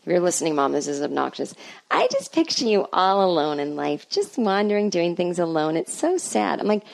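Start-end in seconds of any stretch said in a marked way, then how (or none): 1.9-6.6 a light touch of a pitying mother, slow on the first line; lightly voiced mom feeling sorry for her; mother gently pitying her lonely daughter, lightly imitated; mimicking mom. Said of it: "My mother said out of the blue to me".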